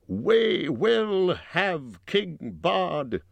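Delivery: high, drawn-out crowd shout; defiant cry from the crowd; shouted reply. A narrator's reading. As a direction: shout it slowly, stretching each word high. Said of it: "shouted in reply".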